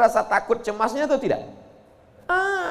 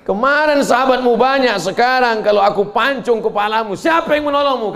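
lightly voiced menacing attacker, higher; threatening enemy; 6 semitones higher, 3 dB louder than usual. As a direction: taunt him over his lonely state.

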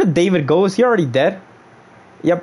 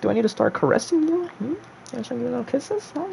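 mock seductive; 10 semitones higher, 8 dB quieter, faster than usual. Sweet-talking his controller.

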